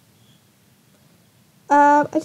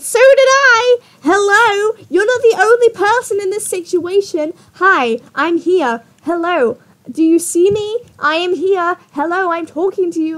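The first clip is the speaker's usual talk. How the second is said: high, loud exasperated retort easing slightly; indignant outburst; 5 semitones higher, 4 dB louder than usual. Acted. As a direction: call out as if being totally ignored. Indignant reply while reading their argument.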